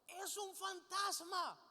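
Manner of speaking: high, drawn-out cry of alarm; lightly acted terror, stretched out slowly; mock frightened cry. Disciples seeing a figure on the water, mock frightened cry. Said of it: "llenos de miedo comenzaron a gritar".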